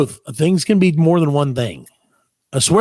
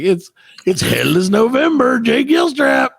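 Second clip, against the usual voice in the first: mock ad announcer; 7 semitones higher, slower than usual. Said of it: "He's like".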